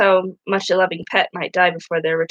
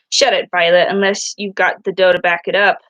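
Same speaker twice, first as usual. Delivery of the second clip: louder, curt bully retort; tough guy snap; 4 dB louder than usual. Acted. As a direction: shut her down like a tough guy. Smitty snapping at Violet.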